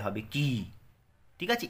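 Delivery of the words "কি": "কি" with its vowel stretched out; drawn-out long i. Shown as a demonstration. Teacher showing the long i letter, "কি" drawn out. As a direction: hold the long i in "কি". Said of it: "একটু টানটা একটু বেশি হবে".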